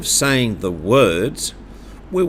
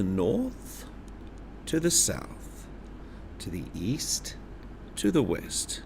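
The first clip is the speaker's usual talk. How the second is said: pitch follows direction; 2 semitones lower, 10 dB quieter than usual. Shown as a demonstration. Teacher modelling compass points with the voice. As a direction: move the voice with the pointing finger. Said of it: "our voice will also change".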